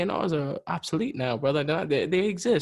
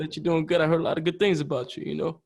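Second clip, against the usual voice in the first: rough attempt at a smooth rapper's voice; a rapper impression. Rapper greeting a younger artist, loosely imitated smooth voice. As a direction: lightly imitate his smooth, easygoing greeting. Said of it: "I'm probably doing a terrible accent".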